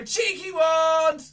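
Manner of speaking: loud, slow cheeky wand; slow shout. Shown as a demonstration. Magician leading kids, loud slow call. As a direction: call it out to the crowd, drawn out. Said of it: "Everyone go".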